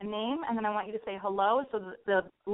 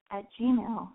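voice cracking up an octave; 2 semitones lower than usual. Real, not acted. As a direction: let the voice crack upward mid-word. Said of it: "Oh my God, my voice cracked".

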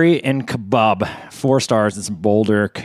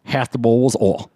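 angry reviewer. Acted. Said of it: "You're gonna make me break character".

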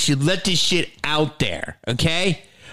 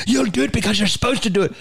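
high, rapid nun scolding; pitched-up imitation of an insistent nun; strict Irish nun; 8 semitones higher, faster than usual. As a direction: rattle it off as a bossy mock-Irish sister. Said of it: "she had, like, a half Irish accent".

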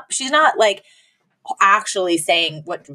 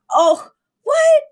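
hammed-up fake breezy Fran; 10 semitones higher than usual. Fran laughing off the proposal to Sheffield, forced breezy cheer. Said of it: "it's kinda sad".

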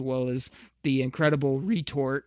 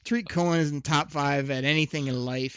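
loud, scornful trash talk; loud opinionated ribbing; 4 dB louder than usual. Real, not acted. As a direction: pile on the insults, loudly. Trash-talking an opposing player.

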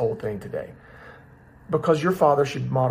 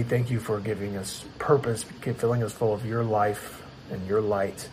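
prayer. Real, not acted. Leads a word of prayer.

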